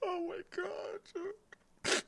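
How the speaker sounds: breathless whisper after laughter; wheezing from laughing, apologizing; after laughing hard. Real, not acted. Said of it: "Let me compose, compose myself".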